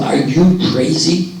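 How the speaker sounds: loud, high-pitched telling-off; outraged rabbi. Acted. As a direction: berate someone down the phone, acted full out. Rabbi berates congregation president by phone.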